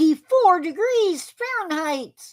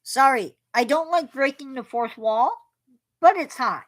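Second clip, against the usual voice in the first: through a face mask. Real, not acted. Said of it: "Try talking through a mask".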